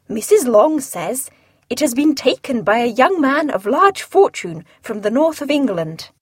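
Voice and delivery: a lightly voiced dry husband; the unbothered husband; Mr Bennet voiced. Husband answering his wife, lightly voiced and dry.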